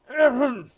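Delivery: loud, high acted throat clearing; over-the-top throat clearing. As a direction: clear the throat for show, hammed-up. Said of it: "most over-the-top clearing of the throat".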